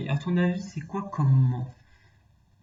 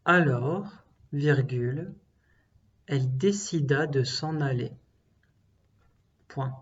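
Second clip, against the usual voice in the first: dictating. Shown as a demonstration. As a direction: clear dictation voice. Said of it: "La dernière phrase".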